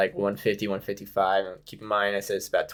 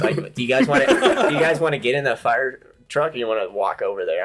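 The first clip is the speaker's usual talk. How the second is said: higher, louder words broken by laughter; laughing; 5 semitones higher, 4 dB louder than usual. Real, not acted. Teller laughing at firefighters offering the fire truck, real laughter. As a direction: laugh it out in disbelief.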